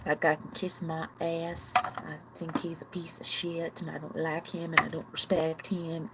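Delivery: a touch of unintended southern twang; southern accent. Real, not acted. Venting about the school board head, light southern accent. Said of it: "make fun of anyone with a southern accent".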